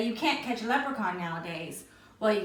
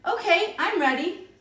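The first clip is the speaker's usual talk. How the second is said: put-on eager boy; 8 semitones higher, 6 dB louder than usual. Eager boy ready to dig.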